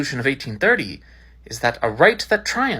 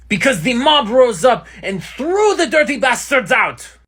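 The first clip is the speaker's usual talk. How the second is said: fiery shout, higher and louder; loud sharp voice; 8 semitones higher, 4 dB louder than usual. Acted. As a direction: yell it like a rallying cry. Enjolras erupts in class debate.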